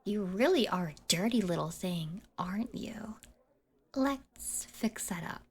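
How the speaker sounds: giggling, fast mocking whisper; laughing whisper.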